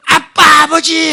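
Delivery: put-on child calling for father. Shown as a demonstration. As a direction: call Abba Father from the heart. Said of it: "하고 부르세요".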